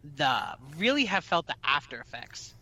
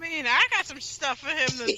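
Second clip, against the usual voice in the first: usual speaking voice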